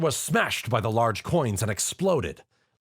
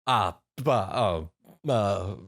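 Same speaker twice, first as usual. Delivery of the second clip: a mild stammer after a kiss on the cheek; flustered stammer; much slower than usual. Acted. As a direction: stumble over the sounds, lightly flustered. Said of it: "Tom stammered".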